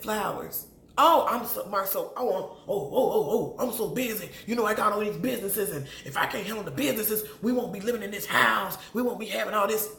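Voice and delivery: hammed-up busy husband, fast and exasperated; mock him brushing off his wife's request; lightly voiced excuse-making husband; imitating Marceau. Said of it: "she said".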